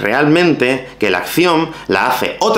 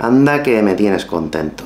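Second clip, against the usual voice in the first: sarcastic reproach; 3 semitones lower than usual. Shown as a demonstration. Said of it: "ironic tone".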